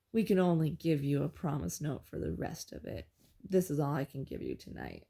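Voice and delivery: a hint of a grouchy cashier stalling; grumpy old guy.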